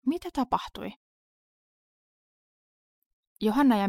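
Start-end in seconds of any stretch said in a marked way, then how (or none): 0.0-0.9 concerned, higher-pitched asking; anxious concern for someone shaken; worried question. A narrator's reading. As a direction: ask with worry, pitched up. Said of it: "Mies katsoi Johannaa huolestuneena".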